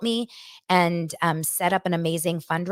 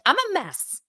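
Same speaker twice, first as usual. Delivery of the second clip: laughing at herself; 6 semitones higher than usual. Real, not acted. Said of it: "was laughing five seconds later".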